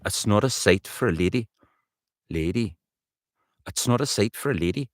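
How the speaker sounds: rehearsed Geordie lilt; practised Geordie with rising tune; Newcastle accent. Shown as a demonstration. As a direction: repeat the line as a Newcastle woman. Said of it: "That's right".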